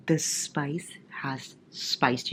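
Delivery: slow breathy whisper. Real, not acted. Reader whispering about the spicy chapter to viewers. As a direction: whisper it like a naughty secret.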